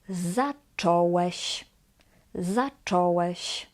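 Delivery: zacząłeś with ą said as plain o, "za-cho-wesh"; slow, non-nasal o in zacząłeś. Shown as a demonstration. Teacher models past tense example, ą as o. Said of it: "simply as".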